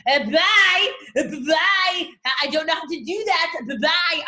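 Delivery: a touch of a panicked broke Jessie Lee; mock panicked exit. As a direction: back away nervously, loud and high. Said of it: "I would have gone".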